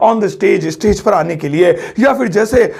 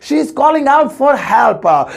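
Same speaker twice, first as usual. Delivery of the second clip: slow second take, weight on out; slow careful English repeat; 4 semitones higher, much slower than usual. Shown as a demonstration. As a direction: repeat slowly, leaning on out. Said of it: "so English होगी".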